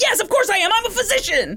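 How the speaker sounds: very high, wild, shrill, swooping screaming, acted. Retelling a man's answer to a 911 dispatcher, imitating someone screaming. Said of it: "And he's like screaming".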